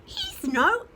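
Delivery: high, slow cooing hen; cooing chicken. Acted. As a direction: coo it out like a bird.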